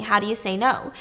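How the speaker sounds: normal talking voice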